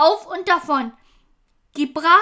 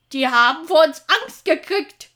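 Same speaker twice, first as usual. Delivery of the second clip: booming; 3 dB louder than usual. Acted. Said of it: "dröhnte Vickys Vater".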